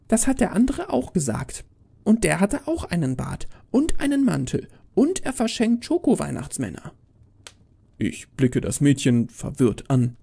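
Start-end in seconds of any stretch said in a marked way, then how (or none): 0.1-6.9 put-on high-pitched child voice; defiant little girl. Girl boasting of the other Santa, defiant high voice. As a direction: argue back like a stubborn kid, pitched right up.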